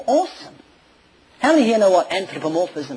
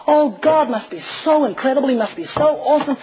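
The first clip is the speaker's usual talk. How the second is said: higher, ringing out the praise; exultant praise; 5 semitones higher than usual. Real, not acted. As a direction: lift it up like a shout of worship. Climax of praise in sermon.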